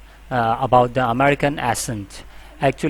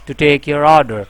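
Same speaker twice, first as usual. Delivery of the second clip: happy agent voice. Shown as a demonstration. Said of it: "you feel like a happy".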